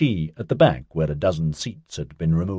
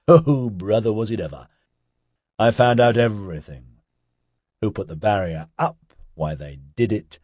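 loose, mellow stoner guy; laid-back hippie voice; 2 semitones higher than usual. Acted. Ozzy's voice again.

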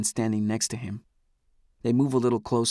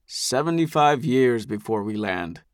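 simply stated. Acted. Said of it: "Eldest says simply".

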